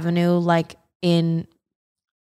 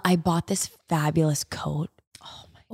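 breathy hushed whisper, almost no voice; gleeful secret whisper about a new coat; excited whisper; 3 semitones lower, 5 dB quieter than usual. Real, not acted. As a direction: lean in and whisper the news.

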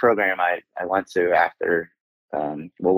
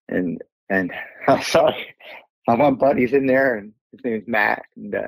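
real tears held back, voice catching; getting upset. Real, not acted. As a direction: fight through the emotion. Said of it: "the reason I'm getting upset".

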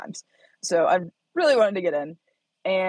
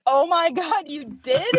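put-on much higher, thrilled child's gasp; excited little girl; 10 semitones higher, slower than usual. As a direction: squeal it like an amazed toddler. Voicing daughter's excited reply.

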